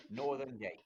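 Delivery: deep loud call breaking into a laugh; laughing character voice. Acted. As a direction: shout it back laughing. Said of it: "I say".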